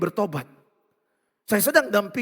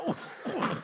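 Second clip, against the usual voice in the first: mock punching grunts; 7 semitones higher, 10 dB quieter than usual. Imitating punches landing on imagined relatives.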